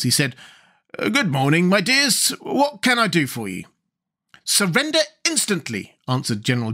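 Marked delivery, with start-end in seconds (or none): 1.0-3.6 pleasant, higher-pitched greeting. A narrator's reading. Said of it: "Speaking pleasantly to the girls". 4.4-6.0 stern demand. A narrator's reading. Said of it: "frowning as terribly as her pretty face".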